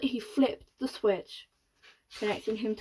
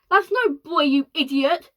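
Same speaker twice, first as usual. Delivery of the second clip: louder, higher insult; shouting; 5 semitones higher, 10 dB louder than usual. Acted. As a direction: bark it at him. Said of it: "shouted ground control".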